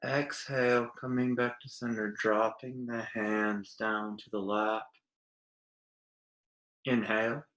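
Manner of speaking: soft, slow release on the exhale; guided breathing. Acted. Teacher bringing listeners back to center, guided breathing. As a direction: ease them gently back down.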